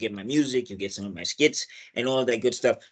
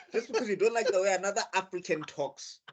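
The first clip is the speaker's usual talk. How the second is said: laughing repeat; 5 semitones higher, 7 dB quieter than usual. Pretend. Repeating line while laughing.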